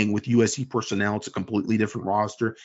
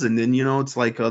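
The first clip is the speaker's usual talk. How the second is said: usual speaking voice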